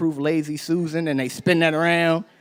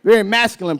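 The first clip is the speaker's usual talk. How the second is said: higher and louder, half sung with a laugh; singsong mock boast; 10 semitones higher, 6 dB louder than usual. Telling a coworker he'll carry the baby, laughing singsong. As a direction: sing the absurd boast, laughing. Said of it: "I was like".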